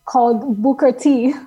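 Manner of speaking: Booker T. said with a light Spanish accent. Real, not acted. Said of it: "Why am I saying that with a Spanish accent?".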